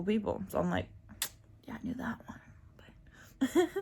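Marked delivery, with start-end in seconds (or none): 1.7-3.7 slow breathy whisper, a little higher; whispered aside. Pretend. Whispering a smug aside to her viewers. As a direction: let them in on a secret, slowly.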